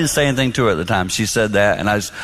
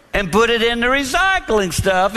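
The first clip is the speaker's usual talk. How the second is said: normal talking voice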